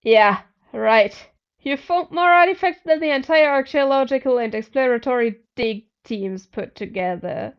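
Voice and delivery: loud, scoffing disbelief; mock him for false modesty; snorting scoff. A narrator's reading. Jack scoffs at narrator's modesty, loud and mocking. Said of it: "Jack snorted".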